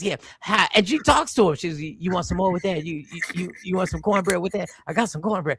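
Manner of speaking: lightly voiced hostess fussing over imaginary guests; a hint of a fussy hostess offering food; mock Lady Q hosting. Friend mocks the wife hosting make-believe guests, lightly imitated hostess. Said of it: "she has make-believe people that she goes".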